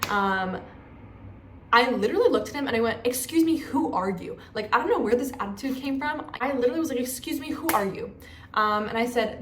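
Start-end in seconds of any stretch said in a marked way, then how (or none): 3.0-4.4 acted indignant challenge, high then dropping; indignant retort. Retells confronting the man who scolded her. 7.0-8.1 acted affronted challenge, starting high; indignant retort. Repeats her indignant reply to the man.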